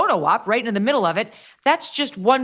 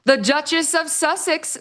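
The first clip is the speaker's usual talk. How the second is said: hammy dramatic reading; 10 semitones higher than usual. Retold or imitated. Mocking reading of article quote.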